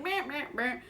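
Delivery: dismissive mumble turning to loud hammed-up alarm; mock him shrugging then panicking; mock meh then overdone oh no; mock careless then alarmed. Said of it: "he just was like".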